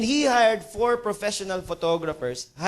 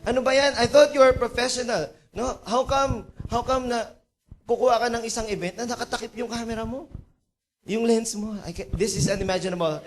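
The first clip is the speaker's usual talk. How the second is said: exasperated scolding, pitched up; mildly hammed-up indignation at an employee; acted annoyance, higher and insistent; angry businessman; 3 semitones higher than usual. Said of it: "Galit na galit yung, yung businessman".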